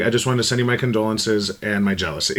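quoting through laughter; laughing quote. Retold or imitated. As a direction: read it out giggling. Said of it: "She was like".

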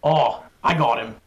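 a self-admittedly bad Australian accent, lightly done; a hint of a friendly Australian bloke, badly done; lightly voiced Aussie spider in an Australian accent. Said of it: "That's my Australian accent. It's really bad".

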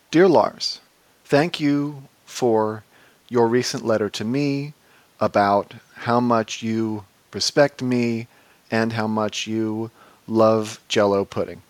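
slow, halting letter read-out; deadpan comic recital of a letter; mock letter reading. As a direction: read it in short phrases with long pauses.

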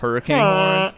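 loud high honking horn. Pretend. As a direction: honk it like a goose. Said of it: "That sounded like a honking goose".

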